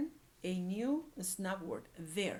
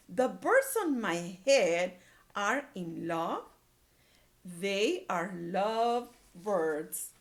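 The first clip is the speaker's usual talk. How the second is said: dismayed, slow; 5 dB louder, slower than usual. Acted.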